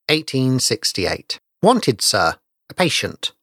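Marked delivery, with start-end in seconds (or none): 1.6-3.3 measured, solemn title reading; story title read. A narrator's reading. Host opening the Christmas ghost story, solemn reading.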